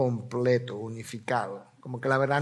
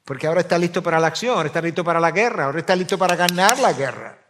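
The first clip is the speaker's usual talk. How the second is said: fast, louder rallying build; rousing preaching; 2 semitones higher, 5 dB louder, much faster than usual. Acted. Pastor rallying believers for spiritual war, fast and louder. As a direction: fire them up for battle, quickly.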